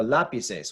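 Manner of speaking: lapises with the opening la- stressed; Spanish lapises, stress the first syllable; stress third from last. Shown as a demonstration. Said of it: "is the third from last".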